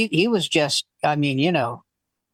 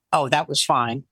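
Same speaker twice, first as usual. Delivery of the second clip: lower-pitched, matter-of-fact retelling; unbothered man; 5 semitones lower than usual. Retold or imitated. Front-row man to comic afterwards, unbothered. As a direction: lightly voice a man who was ready.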